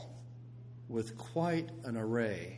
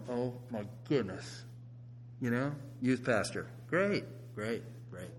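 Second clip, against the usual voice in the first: mock dismayed parents; 4 dB quieter than usual. Parents dismayed at son's teachers.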